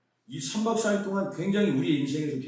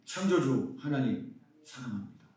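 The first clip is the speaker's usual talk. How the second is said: prayerful confession; 4 semitones lower than usual. Retold or imitated. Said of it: "뭐라고 기-, 고백했냐면".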